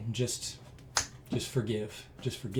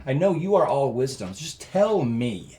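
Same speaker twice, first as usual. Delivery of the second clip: raised, pleading frustration; mad at God; 3 semitones higher, 4 dB louder than usual. Retold or imitated. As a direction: demand an answer from God. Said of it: "just mad at God".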